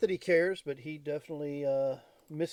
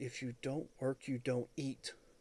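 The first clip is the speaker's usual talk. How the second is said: soft, hushed whisper under the breath; 8 dB quieter than usual. Voicing a young girl who leans down beside the listeners, whispering. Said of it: "she whispers to you".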